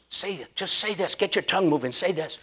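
soft, low coaxing, then low fa la la; hushed urging. Retold or imitated. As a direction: quietly coax him to repeat. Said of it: "She goes".

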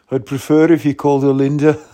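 lightly attempted Scouse that slips into Brummie; a hint of muddled Brummie-Scouse; imitating a singer. Comedian voices a singer's punchline in a loose Brummie-Scouse accent. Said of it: "he's not even a Brummie".

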